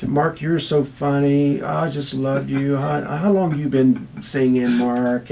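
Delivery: put-on slow, sugary old lady fawning; drawn-out adoring fan talk; a hint of a doting old lady, slow; gushing fan.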